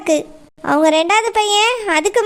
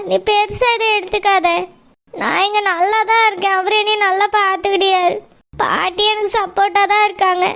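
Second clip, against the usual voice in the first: tearful reassurance. Acted. Crying sister insists she's fine.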